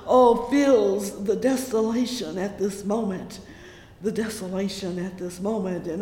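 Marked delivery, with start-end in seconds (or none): 0.1-3.4 loud falling preaching cry; fervent cry. Acted. Preacher crying desolation to the congregation, loud. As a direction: throw the phrase out to the church.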